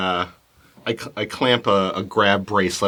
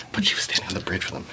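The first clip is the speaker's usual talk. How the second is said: quick, softer whisper; 6 dB quieter, faster than usual. Real, not acted. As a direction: mutter it fast under breath. Muttering to self.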